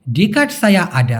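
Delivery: slow, careful Malay phrase; slow teaching read; slow model phrase. Shown as a demonstration. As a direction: say it slowly for learners. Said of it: "আমার কাছে office থেকে বের হওয়ার অনুমতিপত্র আছে।".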